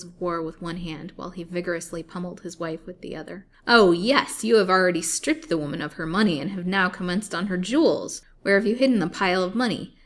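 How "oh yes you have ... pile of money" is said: loud, raised, furious accusation; gloating turning to loud menace; crying out. A narrator's reading. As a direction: demand it with a threat. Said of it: "cried the old man".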